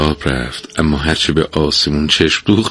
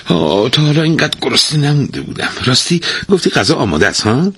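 peculiar tone; 8 semitones higher, faster than usual. Acted. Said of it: "با لحن خاصی گفت".

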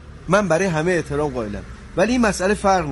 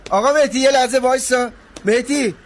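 calling after someone; 4 semitones higher than usual. Acted. Calling after departing friend.

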